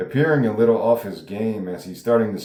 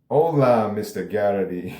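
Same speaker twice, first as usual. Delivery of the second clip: bad Mexican accent. Cartel member greets the TV host, bad Mexican accent. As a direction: attempt a hammy Mexican accent and fail. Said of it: "he's got a really bad Mexican accent".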